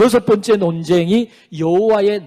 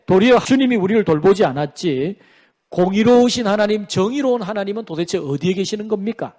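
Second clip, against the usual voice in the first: mildly indignant challenge; defiant protest. Acted. Preacher voices the people challenging God's justice, mildly defiant. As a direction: talk back with a touch of complaint. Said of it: "막 대들고 항변을 하니까".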